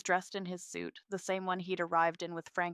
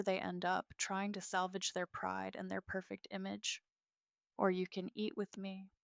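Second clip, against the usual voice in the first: softening. Acted. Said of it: "my voice softening slightly".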